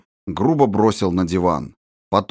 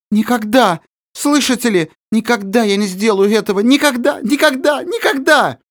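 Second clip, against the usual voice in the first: much higher, a rising shouted refusal; desperate angry cry; 11 semitones higher than usual. Acted. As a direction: scream never with all her grief and rage. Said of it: "она крикнула, вся охваченная одним сплошным гневом".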